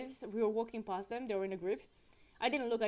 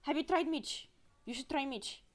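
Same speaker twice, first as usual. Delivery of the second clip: put-on Romanian accent; 3 semitones higher than usual. Tourist imitating a guide recommending food, Romanian accent. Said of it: "let me do the accent".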